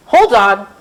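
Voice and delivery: excited little shout; mock shout. Rudy interrupting Mary, a light shout. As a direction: call out to stop everything. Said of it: "Rudy shouted".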